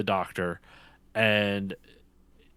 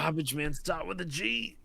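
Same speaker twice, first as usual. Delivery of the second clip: higher, softer mock exasperation; lightly voiced exasperated dad; 5 semitones higher, 7 dB quieter than usual. Quoting a comedy sketch to his friend, mock exasperated. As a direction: mimic a fed-up sketch dad. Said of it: "in the car just going".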